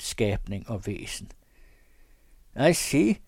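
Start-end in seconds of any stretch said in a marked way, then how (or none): 2.7-3.2 forced smile. Acted. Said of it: "med et tvungent smil".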